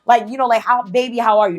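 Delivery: high, sugary mock-sweet greeting; imitating a sweet-talking woman at the car window. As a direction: coo it like an innocent sweetheart. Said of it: "she said something along the lines like".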